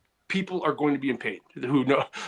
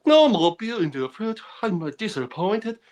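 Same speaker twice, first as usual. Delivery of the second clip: high, put-on Asian accent; 6 semitones higher, 3 dB louder than usual. Muttering to himself so his buddies laugh, Asian accent. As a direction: drag out the end in a mock Asian accent. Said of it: "laugh at the Asian accent".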